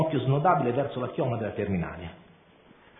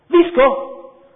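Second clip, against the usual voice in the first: sheepish admission; 11 semitones higher, 10 dB louder than usual. A narrator's reading.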